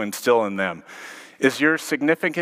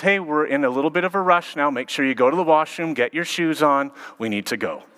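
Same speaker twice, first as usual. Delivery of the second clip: hurried but sweet; 3 semitones higher than usual. Retold or imitated. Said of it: "Still sweet, but she says".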